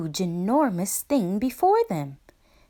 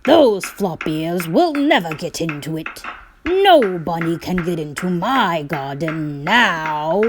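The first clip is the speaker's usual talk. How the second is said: louder smug boast; gloating farmer; 2 semitones lower, 6 dB louder than usual. Acted. Farmer boasts the flop ears can't get in, loud and smug. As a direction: crow over the new wall.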